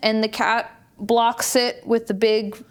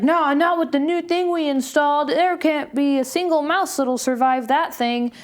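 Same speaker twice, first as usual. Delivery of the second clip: imitating husband; 4 semitones higher than usual. Husband's line retold.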